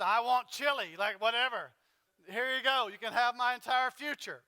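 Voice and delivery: a light hint of a careless country hunter; lightly voiced hillbilly shrugging off his future; Southern redneck. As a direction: toss it off like a hungry good ol' boy who doesn't care. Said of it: "Southern, redneck, hunting, whatever".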